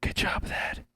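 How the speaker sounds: hushed whisper. Real, not acted. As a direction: whisper so nobody hears. Whispering while cake arrives.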